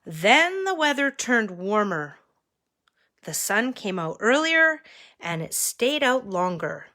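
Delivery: measured read-aloud with lifted key words; story narration. A narrator's reading. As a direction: read a picture book to children. Reads picture book to children.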